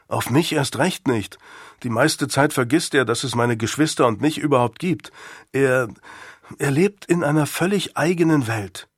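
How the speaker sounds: a hint of a discouraged young son; lightly voiced schoolboy, dejected. Son doubts father will listen, lightly voiced resignation. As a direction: lightly play a boy resigned about his father. Boy Nick's dialogue in story.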